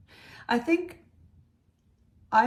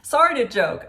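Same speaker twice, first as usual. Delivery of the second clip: nervous laugh; 3 semitones higher, 10 dB louder than usual. Real, not acted. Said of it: "That's my nervous laugh".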